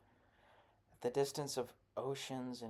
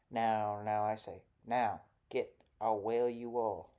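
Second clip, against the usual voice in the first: louder shouted orders; loud yelling; 6 dB louder than usual. Acted. Missus Mean yelling the children indoors, loud. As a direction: bellow at the children to get inside. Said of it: "The recitation, loud as it is".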